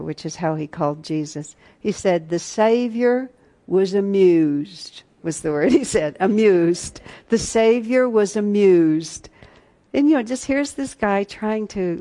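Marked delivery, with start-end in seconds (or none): 2.3-5.0 slow Southern drawl on amused; Southern accent. Retold or imitated. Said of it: "he says this in a Southern accent". 6.2-9.3 louder, slow Southern drawl; Southern accent. Retold or imitated. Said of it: "he says this in a Southern accent".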